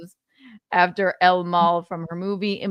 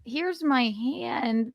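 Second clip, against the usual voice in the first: higher, drawn-out greeting; mock awkward actress; 4 semitones higher, much slower than usual. Intruding actress greeting winners on stage, mock awkward and slow. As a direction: draw out a hammed-up awkward hello. Voicing the actress offering her hand.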